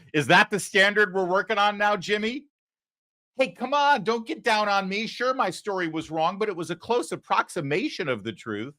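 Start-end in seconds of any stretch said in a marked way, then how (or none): 3.4-8.7 higher, hammed-up whiny excuse; mock whiny reporter. Host mocking Jim VandeHei excusing a wrong story. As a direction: whine like a caught reporter.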